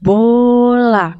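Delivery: put-on Bola said slowly and clearly as a model word for a toddler; teaching a child the word Bola, spoken clearly. Shown as a demonstration. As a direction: say Bola plainly for a child to copy. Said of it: "kalau mau ambil bilang".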